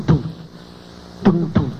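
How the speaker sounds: low double thump; imitated heartbeat. Heartbeat starts once doctor is left alone, imitated heartbeat. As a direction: mimic a heartbeat in low thuds. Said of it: "Y empezó el tum".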